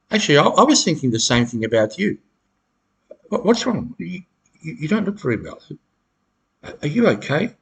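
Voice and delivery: feigned worry turned back on them; mock concern. Shown as a demonstration. To the gaslighter, returning it with fake concern. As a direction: ask what's wrong, faking concern. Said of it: "this is what you say to them".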